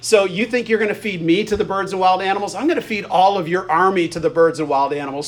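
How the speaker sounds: mild mocking question, then a firm counter-threat; trash-talk comeback. David answering Goliath's threat, trash-talking back. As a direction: throw the threat back, lightly acted. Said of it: "there's this trash talk going back and forth".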